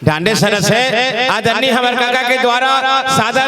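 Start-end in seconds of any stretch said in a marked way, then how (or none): 1.3-3.5 ceremonial stage announcement, amount drawn out slowly; donation announcement. Real, not acted. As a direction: proclaim the gift, stretching the sum. (दान के घोषणा, रकम ला लमा-लमा के)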